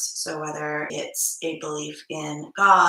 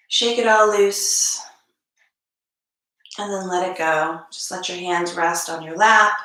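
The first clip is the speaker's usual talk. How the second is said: unhurried instructions with long pauses; calm yoga teacher guiding the room; guided meditation; 4 dB louder than usual. Acted. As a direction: lead a gentle warm-up, phrase by phrase. Leads a guided meditation warm-up.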